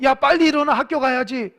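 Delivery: a mock parent yelling up the stairs; parent waking kid. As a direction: rouse a sleepy child for school. Parent waking child for school.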